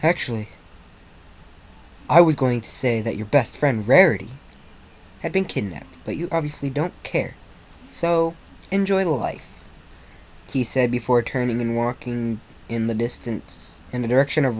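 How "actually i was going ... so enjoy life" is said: emotionless. Acted. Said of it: "letting his eyes go into solid emotionless".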